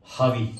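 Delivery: Ravi with the R said as a breathy ह, like हावी; Ravi, throaty French R, no English R. Shown as a demonstration. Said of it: "इसको pronounce करेंगे हावी". (French उच्चारण में Ravi)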